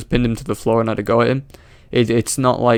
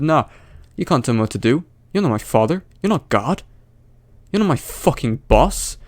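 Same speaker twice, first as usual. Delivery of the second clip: higher-pitched mocking imitation of a defiant man; mock defiance; 3 semitones higher than usual. Commentator mimicking the man refusing police orders, mock defiance. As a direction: put on a petulant mock refusal.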